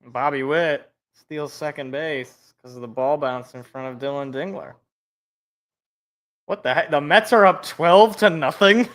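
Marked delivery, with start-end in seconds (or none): 6.4-8.9 louder incredulous what the heck; surprised disbelief. Real, not acted. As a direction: react to an absurd score. Reacting to surprising baseball score.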